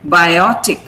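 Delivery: biotic, slowly, with O stressed; slow bi-O-tic, weight on the middle; stress on second syllable. Shown as a demonstration. Teacher models biotic for class, stress on O. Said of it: "then the second syllable is stressed".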